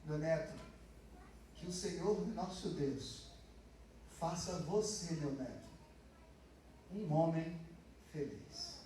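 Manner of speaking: slow, soft grandmotherly blessing; tender blessing. Retold or imitated. Preacher voicing his grandmother blessing her grandson, tender and slow. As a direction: bless him gently, slowly, like a grandmother. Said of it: "É como se ela tivesse querendo dizer".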